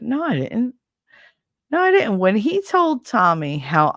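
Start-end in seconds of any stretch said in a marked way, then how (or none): 1.7-2.2 emphatic denial. Real, not acted. Denying ex's claim, louder.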